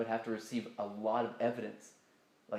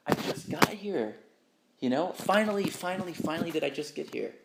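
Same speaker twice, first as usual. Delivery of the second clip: higher and louder, overjoyed to finally be here; joyful exclaim; 6 semitones higher, 7 dB louder than usual. Real, not acted. Telling the listener of loving this reality, higher and louder with joy. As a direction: burst out with joy at having arrived.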